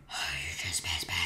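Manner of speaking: very low, husky half-whisper; deep voice. Pretend. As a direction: drop right down into a pretend deep voice. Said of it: "That's my deep voice".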